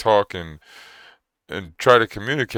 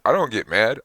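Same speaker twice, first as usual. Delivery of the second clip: usual speaking voice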